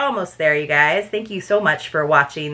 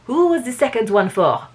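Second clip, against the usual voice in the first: put-on light French accent, a little higher; improved French accent; 4 semitones higher than usual. Reader getting the detective's question right, improved French accent. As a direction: land the French accent more surely. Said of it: "There we go".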